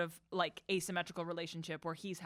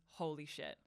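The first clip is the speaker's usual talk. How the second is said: awed hush; 5 semitones lower, 11 dB quieter than usual. Retold or imitated. Quoting hero's line after the night.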